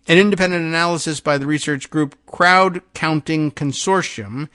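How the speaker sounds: measured, emphatic article reading; projected radio news delivery. Acted. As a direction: read the report out with deliberate weight. Reads the newspaper article aloud.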